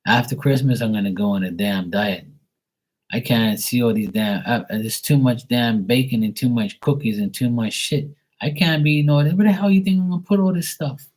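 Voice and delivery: mock exasperated rant. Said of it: "I'm like".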